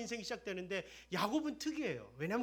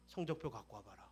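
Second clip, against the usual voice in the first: stern grandfather; 10 semitones lower, 4 dB quieter than usual. Acted. Stern grandfather demanding grades.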